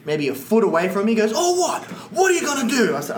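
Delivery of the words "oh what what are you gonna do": high-pitched mocking challenge; taunting stranger. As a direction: square up with a sneering taunt.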